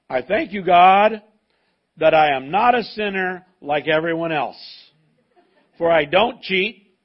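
loud, self-satisfied boasting prayer to God; smug Pharisee. Acted. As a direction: crow about your own goodness. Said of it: "He's full of himself, isn't he?".

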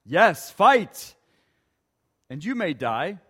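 loud impassioned battle speech; William Wallace speech. Acted. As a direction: rouse them, builds to a loud close. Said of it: "William Wallace responds with this".

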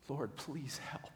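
slow whispered plea; whispered prayer. Retold or imitated. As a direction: breathe the prayer, slow and hushed. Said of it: "she prayed silently".

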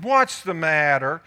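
slow mock-sympathetic what's the matter; slow, coaxing wife. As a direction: coax him slowly like a concerned wife. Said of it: "That's what Jezebel said".

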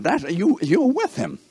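put-on accusing girl. Little female accusing Peter over his accent, high voice. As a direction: catch him out in a high voice.

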